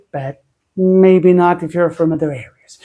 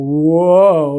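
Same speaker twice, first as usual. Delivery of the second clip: long, swooping "whoa"; demonstrated "whoa"; 4 dB louder than usual. Shown as a demonstration. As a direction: stretch out a cautionary "whoa". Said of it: "like that".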